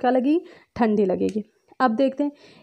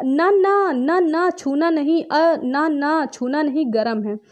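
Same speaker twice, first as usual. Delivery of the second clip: put-on warning a child; 4 semitones higher, slower than usual. Teacher acting a parent keeping a child off something hot, urgent warning. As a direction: shoo a child's hand away from heat. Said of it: "क्या कहोगे?".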